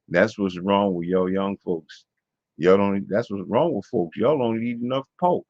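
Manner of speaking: incredulous repeat with a Southern lilt; Southern accent. Retold or imitated. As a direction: lightly imitate a Southern relative in disbelief. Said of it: "he said it in, like, this Southern accent".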